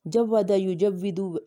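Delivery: جود یجود spelled out slowly; slow root words. Shown as a demonstration. Teacher giving the root of tajweed, slowly. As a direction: lay out جود یجود word by word. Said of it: "اور تجوید کہتے ہیں".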